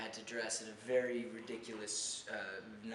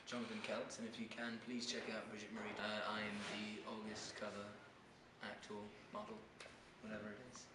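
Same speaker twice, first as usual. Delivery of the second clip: put-on Reign accent; 6 dB quieter than usual. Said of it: "Can you do a little bit of the accent for me?".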